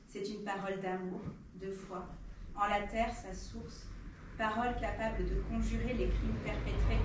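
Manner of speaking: measured, earnest poetry reading; poem recitation. Acted. Reader passes on Ziad's poem to an audience, measured recitation. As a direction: read it as verse, pausing after each line.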